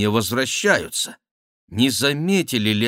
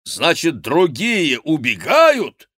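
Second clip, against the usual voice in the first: higher, louder, slow questioning; pressing demand; 7 semitones higher, 5 dB louder, slower than usual. Acted. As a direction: grill him hard. Chicot pressing the monk.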